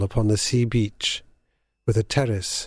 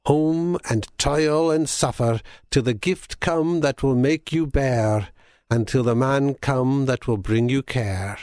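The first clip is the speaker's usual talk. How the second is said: put-on crying old crone; 2 semitones higher than usual. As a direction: call it out like a seagull hag. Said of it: "cried she".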